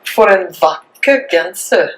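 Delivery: For en vakker genser repeated slowly in Norwegian; careful Norwegian For en vakker genser; Norwegian pronunciation. Shown as a demonstration. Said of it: "One more time".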